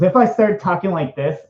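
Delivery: lightly flamboyant put-on voice; a hint of flamboyance. Shown as a demonstration. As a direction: slip into a mildly campy voice. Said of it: "got into my really flamboyant".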